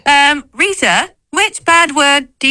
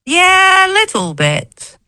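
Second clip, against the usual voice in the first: cockney accent; 9 semitones higher than usual. Real, not acted. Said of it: "kind of a Cockney accent".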